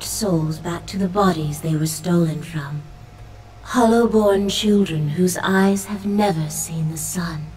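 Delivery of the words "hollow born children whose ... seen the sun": hushed divine whisper; whispered goddess voice. Acted. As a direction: breathe it like a sorrowful goddess. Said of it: "carrying the goddess's voice".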